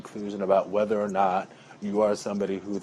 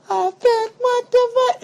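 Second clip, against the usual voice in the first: shocked outburst; 10 dB louder, slower than usual. Retold or imitated. Sudden outburst of disbelief.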